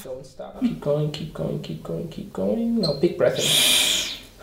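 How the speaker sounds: urging them on, keep going; encouraging coach. Shown as a demonstration. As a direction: cheer the patient through the blow. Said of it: "give the patient more encouragement".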